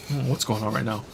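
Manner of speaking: hiccuping and yawning mid-sentence; hiccups and yawning. Real, not acted. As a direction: talk through hiccups and yawns. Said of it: "hiccuping, yawning or something".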